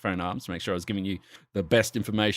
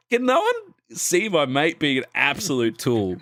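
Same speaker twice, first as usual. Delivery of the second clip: exasperated; 5 semitones higher than usual. Retold or imitated. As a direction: plead it in disbelief. Exasperated retold thought.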